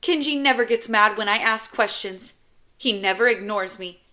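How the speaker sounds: put-on high, loud, upset little boy; kid's indignant outburst; frustrated child. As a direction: spit the words out in hurt frustration. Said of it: "so frustrated he has to spit the words out".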